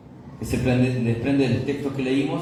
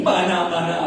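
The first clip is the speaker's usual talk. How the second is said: mock tongues; 4 semitones higher, 3 dB louder, slower than usual. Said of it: "habló en lengua después".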